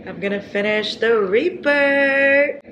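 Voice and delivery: real giggle while talking; giggling. Real, not acted. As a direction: laugh your way through the vow. Laughing at herself.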